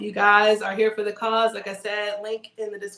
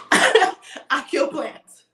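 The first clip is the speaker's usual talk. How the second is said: slow; 5 semitones higher, 6 dB louder, much slower than usual. Pretend. Joking confession after a laugh.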